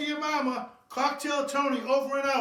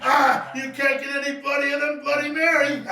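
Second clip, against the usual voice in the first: hyped shout; 2 semitones higher, 6 dB louder than usual. Acted.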